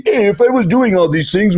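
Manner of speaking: high-pitched, hammed-up Italian accent; excuse-making in a cartoonish Italian accent; mock Italian accent. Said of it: "that's my Italian accent".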